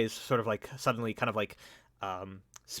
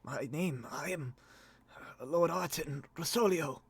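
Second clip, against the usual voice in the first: cracked, broken voice; 5 semitones higher than usual. Acted. Dazed lord giving rescuers his name, cracked voice. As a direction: weakly piece the name together. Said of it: "cracked and broken".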